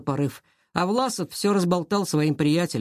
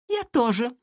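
chiming in; 7 semitones higher than usual. A narrator's reading. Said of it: "подхватила Лера".

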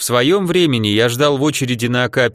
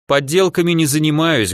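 proud; 3 semitones higher than usual. Acted. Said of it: "гордо ответил я".

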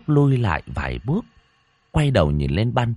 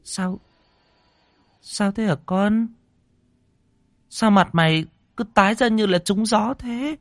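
put-on much higher anxious old woman's voice; worried old mother; 12 semitones higher than usual. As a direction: fret over her pale son. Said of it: "Bà bước đến". (giọng bà mẹ già lo lắng)

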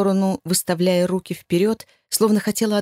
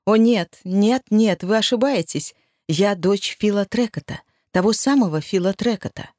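loud false denial; 3 semitones higher than usual. Acted. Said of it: "Так же громко, фальшиво и неискренне".

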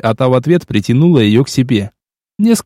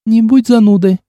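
a higher, teasing snort of a line; snorting dismissively; 8 semitones higher than usual. A narrator's reading. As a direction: brush him off with a scoff. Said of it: "фыркнула Оксана". (фыркнув, насмешливо)

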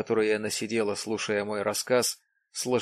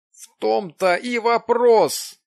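higher, louder, slow insistent cry; exclaiming; 11 semitones higher, 9 dB louder, slower than usual. A narrator's reading. Jim exclaims at Loudon, higher, louder, slow. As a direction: seize on the point triumphantly. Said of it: "воскликнул Джим".

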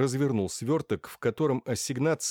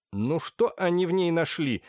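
angry; 7 semitones higher than usual. A narrator's reading. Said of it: "разозлилась Софья Лукинишна".

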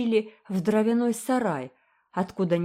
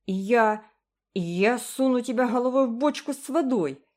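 higher, louder stammering rage; enraged yell; 6 semitones higher, 4 dB louder than usual. A narrator's reading. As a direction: sputter with fury. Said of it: "завопила разъярённый". (яростно вопя)

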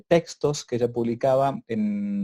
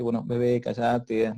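put-on a light, gentle hush to a baby; mother gently hushing her crying baby; slower than usual. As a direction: coax the baby to calm down. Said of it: "despacito le dice".

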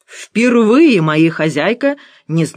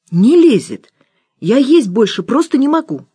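stuffed protest; 7 semitones higher, 4 dB louder than usual. Acted. Nora protests, full.

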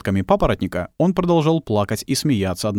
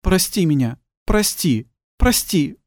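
pleading apology; 8 semitones higher, slower than usual. A narrator's reading. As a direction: beg forgiveness of the girl he left. Guilty plea to lost girl.

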